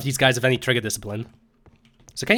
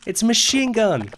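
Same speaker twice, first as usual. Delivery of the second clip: quoting a video; 9 semitones higher than usual. Retold or imitated. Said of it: "like that fucking video".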